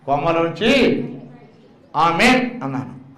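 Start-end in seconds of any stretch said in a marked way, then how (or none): 0.0-1.0 slow emphasis. Shown as a demonstration. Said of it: "నా వైపు చూడండి, వినండి జాగ్రత్త".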